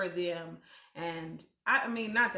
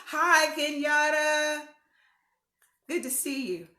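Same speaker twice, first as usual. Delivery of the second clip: excited greeting; 7 semitones higher, 7 dB louder than usual. Real, not acted. Host greeting a friend joining the livestream, excited. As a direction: call out a long, delighted hi. Calls out greeting to arriving viewer.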